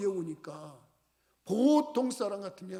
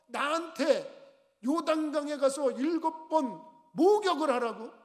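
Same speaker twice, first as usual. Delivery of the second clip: higher, slowed scoffing outrage; outraged disbelief; 7 semitones higher than usual. Acted. General repeating the order in higher furious scorn. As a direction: spit back the insulting order. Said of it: "그러고서 화를 냈어요".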